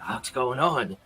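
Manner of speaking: a lightly guttural hobgoblin voice. Acted. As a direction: growl it a little like a hobgoblin. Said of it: "You hear a guttural kinda, the go-, hobgoblin voice".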